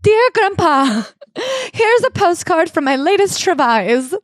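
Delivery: high, slow singsong letter-writer voice; hammed-up sweetness, pitched high and drawn out; mock doting grandchild. Reading a pretend postcard to a mean grandpa, mock doting.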